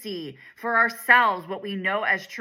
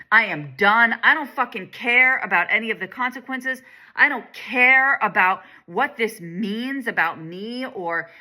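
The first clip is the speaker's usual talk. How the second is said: mock tantrum; 2 semitones higher than usual. Shown as a demonstration. Guiding listeners to let out their frustration, a mild mock tantrum. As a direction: act out a sulky fed-up outburst without really letting go. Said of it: "just have a full-on fucking tantrum".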